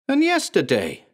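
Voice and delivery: high, rising accusation; fever pitch. Acted. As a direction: build to a frenzy. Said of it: "rising to a fever pitch".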